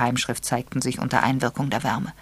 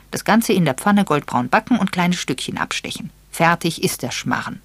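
louder, higher recipe read; reading a recipe aloud; 5 semitones higher, 4 dB louder than usual. Acted. Miss Marple reads the recipe to the young people, louder. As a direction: read it out like a cookbook. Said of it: "las sie vor".

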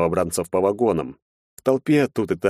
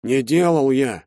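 usual speaking voice

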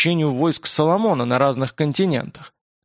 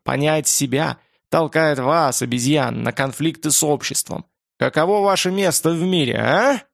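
demon voice. Acted. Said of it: "Могучий голос демона".

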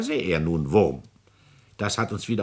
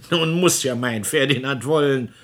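louder and higher, pleased with himself; gloating triumph; 6 semitones higher, 5 dB louder than usual. Acted. President gloating alone about trapping his son. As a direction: savour the win.

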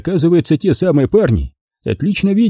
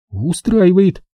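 dejected; 8 semitones higher, much slower than usual. Acted. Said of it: "Подавленно принимая рюмку".

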